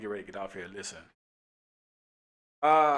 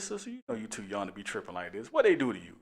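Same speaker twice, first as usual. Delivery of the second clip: softer, gentle soothing tone; calming voice; 2 semitones lower, 5 dB quieter than usual. Retold or imitated. Officer calming the angry older lady, soft and soothing. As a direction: talk her down gently. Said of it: "this how I'm talking to her".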